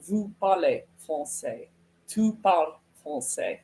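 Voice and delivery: French question opening on "Vous" or "Tu"; pronoun-first French question; native word order. Shown as a demonstration. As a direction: say "parlez français" as locals ask it. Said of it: "they actually lead in every case with the".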